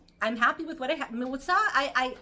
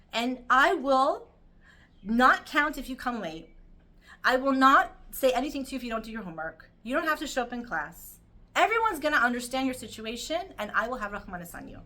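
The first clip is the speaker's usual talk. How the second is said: firm teacher's promise; 2 semitones higher, 6 dB louder than usual. Retold or imitated. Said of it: "he said to him".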